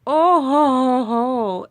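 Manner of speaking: loud burst of laughter; laughing. Real, not acted. Laughs while talking to cat.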